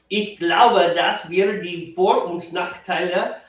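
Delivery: slow, careful German read-out for a friend; reading German aloud. Shown as a demonstration. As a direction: read the German message deliberately. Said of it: "Are you ready? Here we go".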